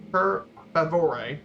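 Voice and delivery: "Per favore" slow and deliberate; slow repeat. Shown as a demonstration. Presenter repeating the phrase for the class to copy. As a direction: drill "Per favore" slowly.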